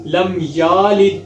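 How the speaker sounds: لم یالد with a stretched ya; wrong long ya. Shown as a demonstration. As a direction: stretch the ya in یلد too long. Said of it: "یا کو لمبا کر دیں تو یہ مسٹیک ہوگی".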